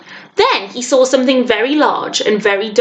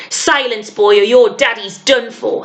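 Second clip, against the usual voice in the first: spat threat. Acted. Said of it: "spat the hunter".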